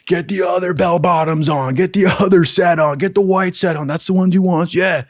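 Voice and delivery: high, hurried-sounding mock urgency; frantic urging. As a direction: act out recruits egging each other on. Recruits rushing to change uniforms.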